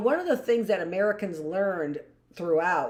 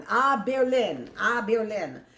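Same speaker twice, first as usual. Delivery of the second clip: French accent attempt; 2 semitones higher, 3 dB louder than usual. Shown as a demonstration. Teacher tries the crowd's cry in a French accent. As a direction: try "À Berlin" in a French accent, unsure of it. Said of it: "I'm not sure if that's French accent".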